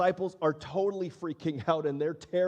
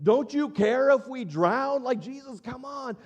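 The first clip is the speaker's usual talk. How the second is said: panicked plea; 7 semitones higher, 5 dB louder than usual. Retold or imitated. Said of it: "they're like".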